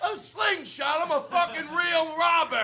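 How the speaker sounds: high, outraged shouting; mad robber. Acted. Robber insulted about his weapon, furious high yell. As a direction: shout back in hammed-up indignation, very high. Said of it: "I get mad that you're insulting".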